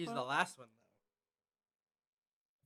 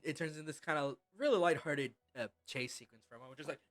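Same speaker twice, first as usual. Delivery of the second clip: usual speaking voice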